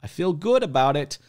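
high, slow, gushing buyer voice; hammed-up satisfied truck buyer; mock happy customer.

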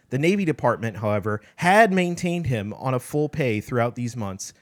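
every "had" leaned on pointedly; sarcastic stress on HAD. Shown as a demonstration. Reading the paragraph to co-host, sarcastic emphasis on "had". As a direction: read aloud, punching each "had" in mockery. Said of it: "sarcastic, uh, emphasis, my own".

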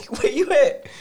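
high call across the house; calling for brother. Retold or imitated. Big brother calling the little one through the house. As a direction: sing out his name, searching.

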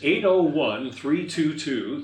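lightly voiced slow announcer; slow, deliberate number read like an announcer. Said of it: "Announcer voice".

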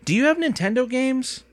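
high called-out question to the front of the store; mild shout up to the counter; calling out. A narrator's reading. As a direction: call across the shop, pitch lifted. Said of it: "She shouted up at the front".

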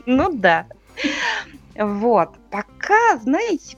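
normal talking voice

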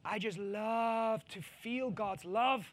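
mock a swooning feel-good faith; dreamy sentimental believer.

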